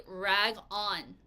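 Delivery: teacher modelling "Rag on"; model pronunciation. Shown as a demonstration. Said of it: "everyone repeat after me and say".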